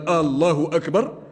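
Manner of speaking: long first vowel in "الله", "أكبر" rising; "الله" opened long, slow questioning tune; lengthened hamza as question. Shown as a demonstration. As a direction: turn "الله أكبر" into a question with a drawn-out opening A. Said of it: "نقل الأمر من الإثبات إلى الاستفهام".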